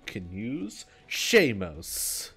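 slow, drawn-out sales pitch; home shopping host. Pretend. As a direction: sell it like late-night TV. Fake item advert.

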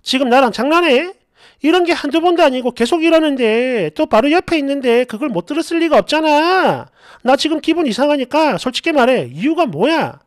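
acted no-nonsense challenge to a boyfriend; dead-serious confrontation. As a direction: sternly demand an explanation. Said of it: "완전 정색을 하고".

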